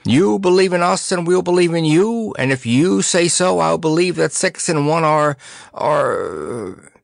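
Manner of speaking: high, lilting rhyme that falters at the end; forgetful poet reciting. Acted. Percy rhyming to the flower fairy, brightly forgetful. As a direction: recite it high, then grope for the word.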